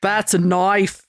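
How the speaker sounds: slow, put-on Australian drawl; mock Australian accent. Co-host trying an Australian catchphrase, mock Australian accent. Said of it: "maybe accents aren't for you".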